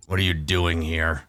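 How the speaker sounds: mild, understated orc snarl. Acted. Orc questions the intruder, a touch of a snarl. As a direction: lightly voice a suspicious orc. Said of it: "he, he snarls".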